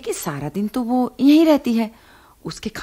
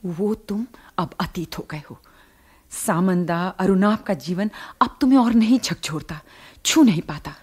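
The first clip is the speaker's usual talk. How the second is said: inner monologue. Acted. Inner monologue to absent friend. (मन ही मन धीमे, उदास स्वर में)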